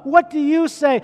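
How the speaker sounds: loud, pressing "What do you say?"; loud preaching question. Acted. Pastor pressing each member, "What do you say?" loud. Asking the church directly.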